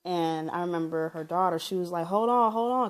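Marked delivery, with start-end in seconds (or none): 2.1-2.9 lightly acted urgent 'hold on'; raised voice, retelling an interruption; urgent retold interjection. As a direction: imitate someone breaking up a fight, higher pitched. Daughter interrupting a yelling fight.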